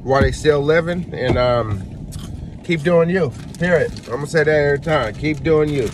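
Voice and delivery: eating snacks between words; talking while chewing. Real, not acted. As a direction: mouth partly full of chips. Seen 0: Holds chip bag, reaches in, brings chips to mouth while talking.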